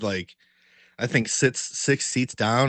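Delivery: usual speaking voice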